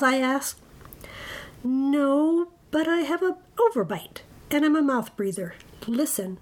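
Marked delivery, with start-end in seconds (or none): 1.6-6.4 lightly voiced monster, pitched a little up; a hint of an apologetic monster; meek monster. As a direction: sheepishly admit it, as a harmless monster. Herbert the monster admits his flaws.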